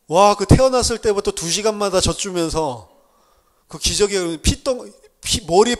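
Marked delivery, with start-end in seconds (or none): none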